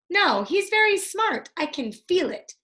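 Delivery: high, earnest insistence; a lightly voiced stubborn girl; insistent little sister. A narrator's reading. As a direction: insist she knows it. Annie insisting.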